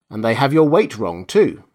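a scornful little punchline from the wife; mock disdain at her husband; contemptuous disdain. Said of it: "the tone of contemptuous disdain in the woman's voice".

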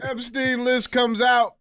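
high, loud, slow hype; excited high-pitched announcement; hyped announcement. Real, not acted. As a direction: drag out the big news like a host. Hyped news opener.

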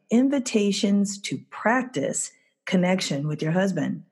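Practice leaned on a little; reading the title with weight on Practice; stress on practice. Shown as a demonstration. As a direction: give Practice a light extra push. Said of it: "Notice I emphasize the word practice".

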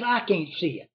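hushed frustrated whisper. Retold or imitated. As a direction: whisper it, barely voiced. Hunter whispers in the brush.

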